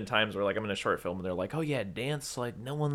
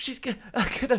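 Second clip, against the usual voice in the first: put-on shrill, high, out-of-breath, panicked stammer; 14 semitones higher, 4 dB louder than usual. Imitating the actress at the gas station: imitating panicked out-of-breath speech. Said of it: "even when I just did that little impression".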